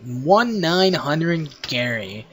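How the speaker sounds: drawn-out, deliberate title reveal; slow announcement. Acted. Announcing the name of a joke hotline, slow and drawn-out. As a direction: say it slowly, spacing out each word.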